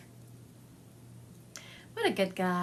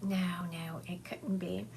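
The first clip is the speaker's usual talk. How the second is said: doubtful whisper; 6 dB quieter than usual. Retold or imitated. Talking herself out of it.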